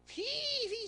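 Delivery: high-pitched, drawn-out swishing word; playful stirring sound effect. Acted. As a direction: stretch it up high like water being swirled. Imitating angel stirring the water.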